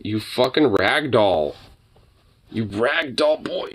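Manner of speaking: slow drawn-out fond teasing; slow pet talk. Real, not acted. Owner slowly teases her floppy dog.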